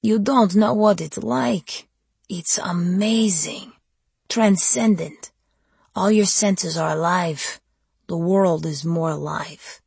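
slow, entranced vampire; rapturous vampire. Acted. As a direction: savor every word, seductive. Vampire savoring his state.

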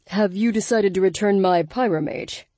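cool, measured and deep; calm, deep voice. A narrator's reading. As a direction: speak calmly from low in the chest. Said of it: "Darius's calm, deep voice".

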